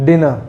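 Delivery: "dinner" as DIN-uh, the R dropped; silent final R. Shown as a demonstration. Teacher modelling the word, "dinner" with silent R. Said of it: "The word will be pronounced as dinner".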